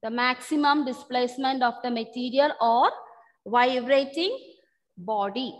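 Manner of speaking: measured dictation, pausing before the last words; dictation read-back. Real, not acted. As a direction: read back a definition for note-takers, dropping on the final word. Reading back the dictated definition.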